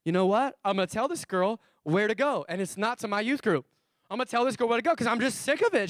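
mildly exasperated acted rant; fed-up youth pastor. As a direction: act out having had enough. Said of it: "he had enough".

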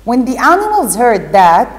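teacher reading a story to pupils; reading to children. Acted. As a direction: read the story aloud to the class with expression. Teacher reads Alice story aloud.

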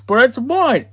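high whiny insistence on mine; possessive whining. Acted. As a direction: whine it like a greedy kid. Squabbling over the Xbox.

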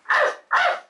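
high eager barks; hungry barking. Acted. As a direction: bark for your dinner. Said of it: "I say arf when I want to get fed".

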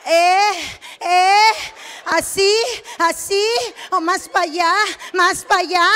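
indicaciones agudas sin soltar el tono; da órdenes manteniendo el tono del gemido. Retold or imitated. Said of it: "no sé qué me está calando". (indicaciones cantadas en tono agudo)

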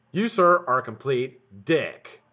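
mock formal insult aimed at the boss; mock scolding. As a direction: talk down to him grandly. Mock-addressing the absent boss.

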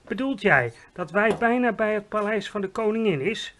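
loud, excited giant call. A narrator's reading. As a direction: call out in amazed disbelief. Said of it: "riep de G V R".

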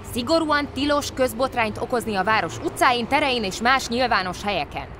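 loud, high, officious lecture; stern official policeman. A narrator's reading. Bear policeman reading the rules to a pug. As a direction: lay down the law pompously.

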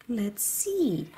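breathy Let's see whisper; a hushed little whisper. Real, not acted. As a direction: whisper it secretly. Whispered aside while playing.

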